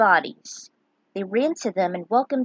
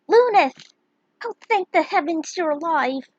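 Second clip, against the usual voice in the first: high, loud cry of relief; relieved cry; 8 semitones higher, 6 dB louder than usual. Acted. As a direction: call out his name overjoyed. Raphia greets Lunith, retake.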